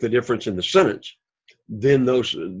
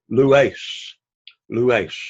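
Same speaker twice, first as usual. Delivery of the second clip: "lues" accented on "lu", next to last syllable; penult stress. Shown as a demonstration. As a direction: teach "lues" in two syllables, leaning on "lu". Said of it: "accent on the penult".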